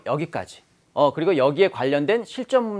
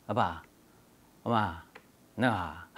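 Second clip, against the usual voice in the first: put-on toddler talk; 10 semitones lower, 10 dB quieter, much slower than usual. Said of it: "이렇게 얘기해요".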